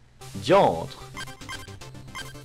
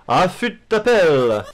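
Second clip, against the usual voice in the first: unhinged villain; 6 semitones higher, 7 dB louder, slower than usual. Acted. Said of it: "petit rire diabolique".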